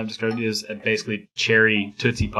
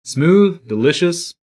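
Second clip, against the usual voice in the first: ad voice; 3 semitones higher, much slower than usual. Pretend. Parody whiskey ad read.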